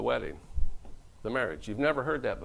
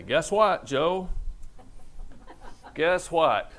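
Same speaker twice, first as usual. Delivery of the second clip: eager reveal; 6 semitones higher, much slower than usual. Acted. Mary telling Joseph news.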